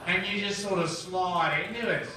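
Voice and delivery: high Cockney sliding into Australian; hammed-up Australian accent, easing down from a high, loud start. Shown as a demonstration. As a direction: slide from Cockney into broad Australian. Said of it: "that's how that accent happened".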